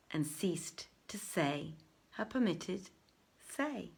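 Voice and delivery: soft unvoiced whisper to end the night; whispered close. A narrator's reading. Narrator closing Shahrazad's night in a whisper. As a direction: hush it away as the night ends.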